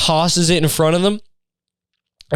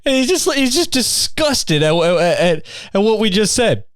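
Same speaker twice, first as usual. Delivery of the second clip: laughing; 8 semitones higher, slower than usual. Real, not acted. Laughing while telling the story.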